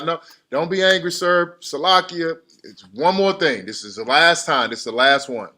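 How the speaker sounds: Abraham bargaining with the Lord, playful pleading. Acted. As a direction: plead one last time like Abraham. Voicing Abraham pleading again.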